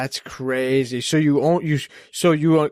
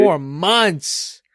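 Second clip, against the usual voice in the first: stunned whispered question; surprised whisper; 3 semitones higher than usual. Real, not acted. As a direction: breathe it out in disbelief. Surprised at four months.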